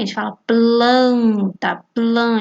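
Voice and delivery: "planta" stressed, then "plan" alone; teacher isolating "plan" from "planta"; sounding out the word. Shown as a demonstration.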